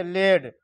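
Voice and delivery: लेड with closed 'ay', like laid; wrong reading of lad. Shown as a demonstration. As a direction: say लेड to rhyme with made. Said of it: "ये नहीं पढ़ेंगे".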